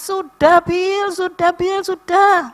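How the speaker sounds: high, loud plea to stop; retold pained cry. Grandma cries out to Billy to stop cleaning wound. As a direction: beg him to stop, crying out high. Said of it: "Aku sampai teriak-teriak, sampai nangis".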